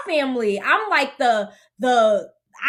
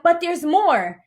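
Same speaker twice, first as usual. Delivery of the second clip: drawn-out teasing reveal, slightly raised; mildly excited; 4 semitones higher, slower than usual. Retold or imitated. Sister-to-be sharing pregnancy news, mildly excited. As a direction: imitate someone slowly teasing big news. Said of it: "she was excited".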